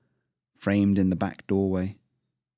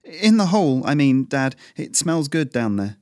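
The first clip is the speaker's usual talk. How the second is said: put-on much higher, eager young boy; boy's voice; 6 semitones higher, 5 dB louder than usual. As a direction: explain yourself quickly as a nervous kid.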